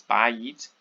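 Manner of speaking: bayit said as BA-yit, stressed at the front; corrected, front-stressed bayit; stress on first syllable. Shown as a demonstration. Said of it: "so it's bayit".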